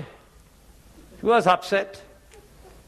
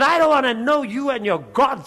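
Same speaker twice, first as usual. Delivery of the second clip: higher-pitched mock irritation; annoyed dismissal; 4 semitones higher than usual. Bank manager throws out loan applicant, annoyed. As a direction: imitate a fed-up bank manager.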